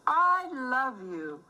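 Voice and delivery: slow, loving I love you; tender valentine. Acted. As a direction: say it sweetly to someone dear. Valentine greeting in rhyming book.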